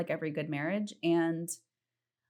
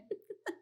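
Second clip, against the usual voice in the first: soft giggle; 12 dB quieter than usual. Real, not acted.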